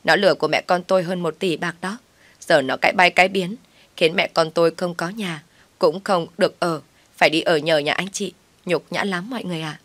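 ordinary delivery

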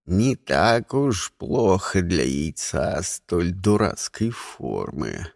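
low, slow gruff elder praise; rough but friendly old voice; old man friendly. Acted. Old egg continues.

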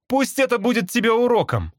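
high-pitched scolding cry; mild shout. A narrator's reading. Nick scolds the escaped bird, crying out. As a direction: call it out as a warning. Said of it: "закричал мне Ник".

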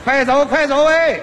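pushy, impatient hurry-up; urging. Acted. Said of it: "他这么一催呀". (不耐烦地催促对手快走棋)

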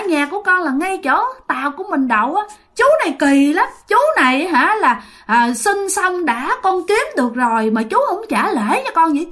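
put-on a little kid tattling on the uncle; naive child voice. Ghost child complaining to great-grandma, high and childlike. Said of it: "giọng của chú ngô nghê như một đứa con nít".

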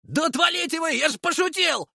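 very high, whiny yelp; fleeing protest. A narrator's reading. Leshy runs from Artyom and Makar, high and whiny. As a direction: squeal it while running.

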